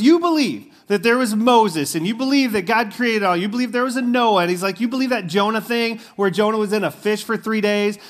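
a stranger grills the woman about her Bible, mock disbelief; mock incredulous guy. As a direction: quiz her like a sceptical stranger. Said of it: "And he goes".

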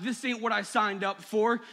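loud, high, anguished shouting at God; a reenacted outburst of raw anger at God. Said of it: "just start shouting to God".

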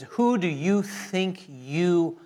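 slow, scornful taunt; lightly voiced mocking God. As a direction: sneer it down at them. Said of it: "He is mocking in the ridicule of".

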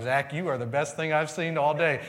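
loud, gushing reply; matching exuberance. Retold or imitated. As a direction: throw the same energy right back, loudly. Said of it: "with the same kind of energy".

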